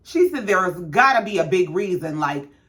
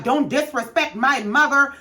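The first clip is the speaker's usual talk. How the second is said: mild mock yell; 5 semitones higher than usual. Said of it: "Karen is steadily screaming about".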